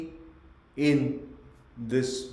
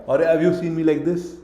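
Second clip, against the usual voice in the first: louder question while showing a pose; demonstrating a bad pose; 3 semitones higher, 8 dB louder than usual. Shown as a demonstration. Trainer showing students a bad posture, loud. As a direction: play out the wrong posture, loudly.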